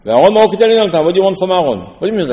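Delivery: mock-exasperated questions; acted challenge. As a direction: challenge them, as in a retold quarrel. Acted challenge in the Korach quarrel.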